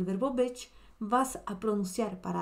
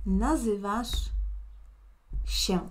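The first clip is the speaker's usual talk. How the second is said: nazywasz się drawn out, each syllable clear; slow teaching demo; slower than usual. Shown as a demonstration. Teacher giving the tú form to a student, slowly. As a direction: lay it out slowly so they can copy. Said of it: "Y para tú tenemos".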